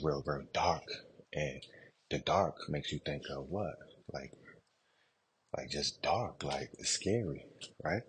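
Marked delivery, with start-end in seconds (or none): 4.1-8.0 out of breath mid-workout; heavy breathing. Real, not acted. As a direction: breathe hard between words. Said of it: "don't mind my breathing. I'm in the middle of a workout".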